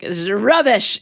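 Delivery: a hint of a British accent, quick and dismissive; lightly mock Simon's British accent; attempted British accent. Teacher mimics a judge's British put-down, with a light British accent. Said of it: "just in his British accent, which I can't do".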